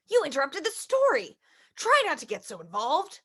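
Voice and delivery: low, soft father voice; a gentle low dad tucking in his child; reading the father's lines low and soft; papa voice. Acted.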